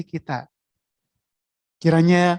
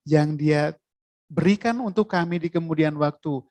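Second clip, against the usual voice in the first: closing prayer; 2 semitones lower than usual. Acted. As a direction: pray over the congregation humbly.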